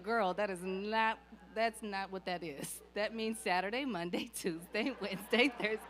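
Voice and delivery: a dad laughing while explaining. Retold or imitated. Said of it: "in tears 'cause he's like".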